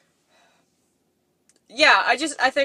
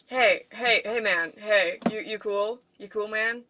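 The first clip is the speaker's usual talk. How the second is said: dude voice. Shown as a demonstration. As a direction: check in like a laid-back bro. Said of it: "I'm trying really hard to do British dude".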